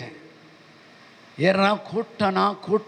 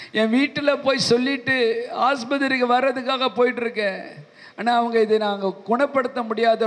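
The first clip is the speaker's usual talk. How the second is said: rising, higher distressed pleading; tearful plea; 4 semitones higher than usual. Retold or imitated. The cancer patient tells the preacher his news, rising into tearful pleading. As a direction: pour out the bad news as if near tears. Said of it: "அழ ஆரம்பித்தார்".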